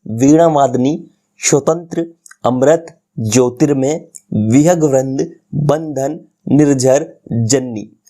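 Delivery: each word said slowly and separately, as a model for pupils; teacher models "वीणा वादनी" to "जन्नी" word by word; careful pronunciation demo. Shown as a demonstration. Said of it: "जैसे मैं पढ़ता हूँ".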